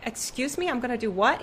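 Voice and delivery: high, startled question; can't believe what she just heard; sharp rising disbelief; incredulous. Retold or imitated. Incredulous reply to God.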